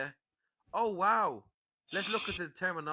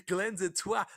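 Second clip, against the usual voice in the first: laughing jeer between giggles; mocking laughter around an insult; mock troll cackle; 6 semitones higher, 5 dB louder than usual. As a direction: snigger like a smug troll hiding in a group.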